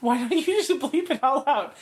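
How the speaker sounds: giggling half-whisper; whispered laugh. Real, not acted. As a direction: laugh it out under your breath. Laughing reply to the aside.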